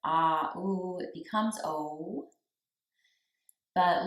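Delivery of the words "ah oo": "ah, oo" sounded out in turn; ah then oo. Shown as a demonstration. Teacher joins "ah" and "oo" for the students. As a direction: join "ah" and "oo" slowly. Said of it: "So putting it together".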